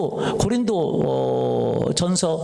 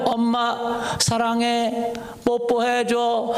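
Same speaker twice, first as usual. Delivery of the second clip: cute talking dog; 6 semitones higher, much slower than usual. Pretend.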